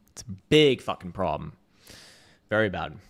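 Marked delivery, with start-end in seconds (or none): 0.1-1.5 "big" hit harder on the repeat, louder. Real, not acted. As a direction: say "big fucking problem" again, louder.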